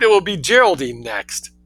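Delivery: dry, cutting retort; sardonic snap. Acted. Son taunting his mother through the door, snapping. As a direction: needle her with it. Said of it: "he snapped".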